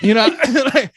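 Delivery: high laughing aside. Real, not acted. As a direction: laugh through the words. Laughing at own joke.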